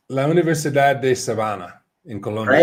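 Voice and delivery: Spanish name said with a gringo accent; anglicized Spanish, American vowels. Real, not acted. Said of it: "I said that like a gringo".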